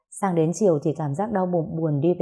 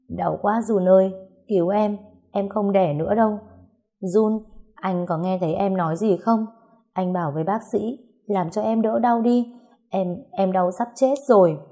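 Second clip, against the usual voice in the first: crying out in labor pain; 2 semitones higher than usual. Acted. Woman in labor calls to her husband, mild pained crying out. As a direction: call out to Jun for help, hurting but held back. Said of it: "An bắt đầu gào thét".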